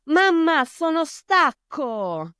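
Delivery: put-on high excited little child calling mamma; child's voice. Little son stuck on the bench calling mamma, high and childlike. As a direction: play the small boy calling to his mother. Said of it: "and he said".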